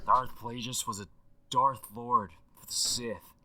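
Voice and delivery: animated, slangy dude rambling on a voicemail; Aaron Paul impression through a phone line; excitable legend left as a phone message; voicemail effect. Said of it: "With the voicemail effect".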